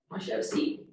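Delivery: put-on softly coaxing an upset kid to sit; hushed and unhurried, no pressure; low, quiet, slow. Shown as a demonstration. Calm teacher soothes angry kid in a hushed voice. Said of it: "Notice how low my voice is".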